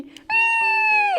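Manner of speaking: very high sliding squeal; slipping down the table leg; high playful whee. Acted. Sliding again.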